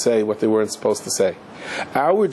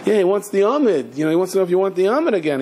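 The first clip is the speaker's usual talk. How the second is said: mock-impressed, raised pitch; retold sarcasm, lilting upward; sarcastic; 5 semitones higher, faster than usual. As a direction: mimic a scornful reply to an invitation. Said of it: "he says sarcastically".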